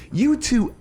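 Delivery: exaggerated complaint. Real, not acted.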